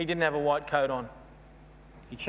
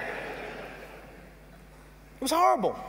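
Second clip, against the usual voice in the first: slow, drawn-out whisper; whispered horror; 11 semitones higher, much slower than usual. Real, not acted. Speaker recalling the doctor's waiting room, slow whisper. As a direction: whisper it out slowly in disgust.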